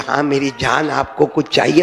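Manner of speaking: loving wife. Retold or imitated. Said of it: "اگر پیار سے بولے".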